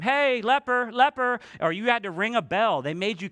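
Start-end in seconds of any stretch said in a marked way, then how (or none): 0.0-1.4 higher, louder warning call; yelled warning. Acted. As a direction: call out to warn people off. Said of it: "had to yell out to them".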